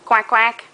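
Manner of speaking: mock duck "Quack, quack". Shown as a demonstration. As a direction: quack like a toy duck for baby. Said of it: "can you say quack".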